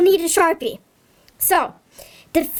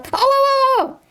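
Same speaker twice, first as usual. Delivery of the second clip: much higher, eager oh-oh-oh; hammed-up eureka for the kids; sudden idea; 8 semitones higher, much faster than usual. Pretending to get an idea.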